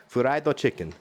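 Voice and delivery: put-on Asian accent on "Fried chicken"; "Fried chicken" in an Asian accent, extra vowel after the F. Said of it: "say that with that accent".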